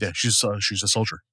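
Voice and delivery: a few beers in, words running together; slurring. Real, not acted. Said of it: "how much I'm slurring".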